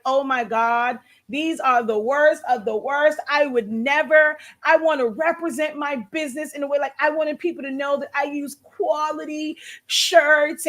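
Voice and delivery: mock-condescending crafter's voice. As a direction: imitate a shirt snob talking down to others. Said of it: "that's condescending in that tone".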